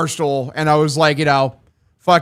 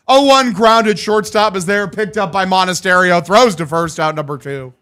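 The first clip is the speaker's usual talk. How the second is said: a lightly voiced radio baseball call; a hint of a ballpark announcer; play-by-play call. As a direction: call the pitches like a broadcaster. Calls the groundout.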